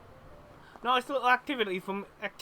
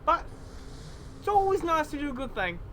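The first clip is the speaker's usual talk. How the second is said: put-on Cockney-Australian accent. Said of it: "I'm doing a mixture of Cockney and Australian".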